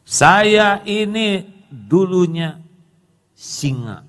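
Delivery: slow, lightly voiced warning cat; ominous cat. Preacher voicing the cat warning the lion, slow and ominous. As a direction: drag it out like a cat with a dark secret. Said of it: "Apa kata kucing?".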